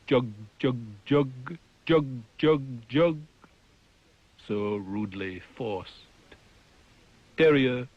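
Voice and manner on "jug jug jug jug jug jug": nightingale call. Acted. Poem imitates nightingale's song.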